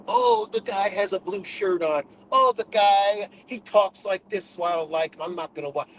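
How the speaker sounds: lightly voiced sneer at picky viewers; mock the shallow complainers; mocking petty viewers. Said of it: "Y'all be into that".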